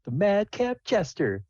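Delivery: slow, drawn-out, savoring each word; slow grand announcement. Acted. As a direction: stretch the name out like a big reveal.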